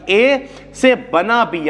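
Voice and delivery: slow, word-by-word literal reading; mock slow wrong reading. Shown as a demonstration. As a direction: drag it out like a student sounding out arrows. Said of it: "ऐसे नहीं पढ़ना".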